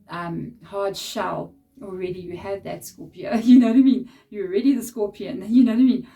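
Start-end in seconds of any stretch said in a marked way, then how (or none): 3.4-4.1 laughing question. Real, not acted. Laughing at her own joke. 5.5-6.1 laughing question. Real, not acted. Laughing again at the Scorpion joke.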